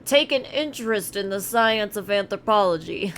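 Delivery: a lightly put-on, bad Boston accent as the professor; a woman faking a man's Boston accent, badly. Professor greeting students, in a half-hearted bad Boston accent. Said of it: "really, really bad Boston accent".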